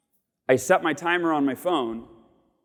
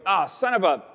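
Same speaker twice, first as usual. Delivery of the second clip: quick frustration then acceptance; 2 semitones higher than usual. Retold or imitated. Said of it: "I go".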